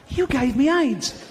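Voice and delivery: high, slow, outraged accusation; accusing shout. Acted. Man confronting the chimp in the jungle, high and furious. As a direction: wail it at the chimp, betrayed.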